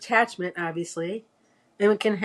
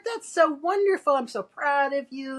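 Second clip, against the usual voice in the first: put-on higher, gushing praise for a child; proud mother; 6 semitones higher than usual. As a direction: beam with pride at the kid. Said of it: "what she should have said was".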